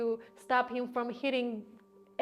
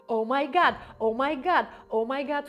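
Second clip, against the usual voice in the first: mild mock yell, raised and repeated; a half-strength retold scream; imitated screaming; 3 semitones higher, 5 dB louder than usual. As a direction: imitate someone crying out on a loop. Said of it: "started screaming at some point".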